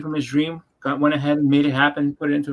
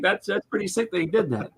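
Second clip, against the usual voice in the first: a hint of a higher, impressed voice; imitating impressed Larry; 6 semitones higher than usual. Larry not mad, praising Steve's trick, lightly voiced and impressed. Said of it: "He was just like".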